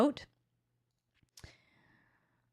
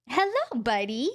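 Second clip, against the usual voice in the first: dog greeting. Real, not acted.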